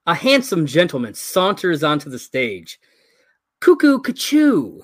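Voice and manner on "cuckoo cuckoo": high, slow whispered cuckoo; cuckoo bird call. Acted.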